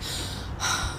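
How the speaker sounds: dramatic sigh. Retold or imitated. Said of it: "like, so dramatically".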